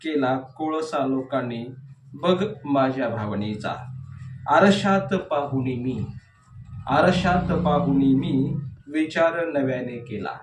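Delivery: measured verse reading with falling line endings; declaimed poetry, leaning on each opening word; poem recitation. Acted. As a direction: recite the verse line by line, pausing between phrases.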